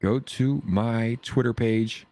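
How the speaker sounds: slow drawn-out. Pretend. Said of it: "slow radio-style repeat".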